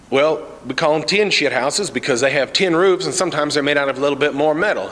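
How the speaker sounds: lightly voiced hillbilly. Cletus explains saying.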